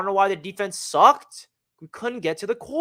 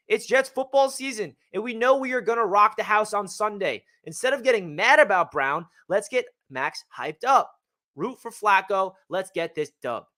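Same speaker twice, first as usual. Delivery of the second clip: hyped reread; 4 semitones higher than usual. Shown as a demonstration. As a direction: read it again like a rallying cry. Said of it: "I'm gonna read it again".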